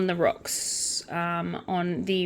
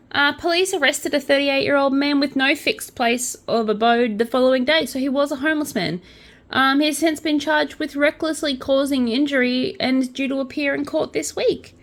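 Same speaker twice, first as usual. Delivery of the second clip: higher, lifted pitch throughout; upward inflection; 5 semitones higher than usual. Real, not acted. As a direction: read it in disbelief, pitch raised. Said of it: "saying it with that such upward inflection".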